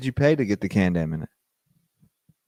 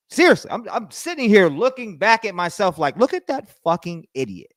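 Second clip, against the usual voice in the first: mock disgust at himself; 8 semitones higher than usual. Mocking his younger self.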